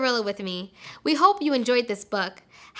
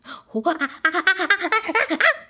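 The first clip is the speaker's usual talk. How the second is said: gorilla grunts; 3 semitones higher, 3 dB louder than usual. Pretend. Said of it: "Can we make a gorilla sound?".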